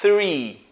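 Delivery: three with tongue near the teeth, blowing the TH; teacher modelling the th in "three"; blown TH. Shown as a demonstration. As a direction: blow air through the th of "three". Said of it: "com a língua bem próxima dos dentes, soprando".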